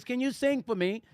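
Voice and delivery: lightly imitated British woman; British accent. Woman requesting a song from the young singer, mock British accent. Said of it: "she had a British accent".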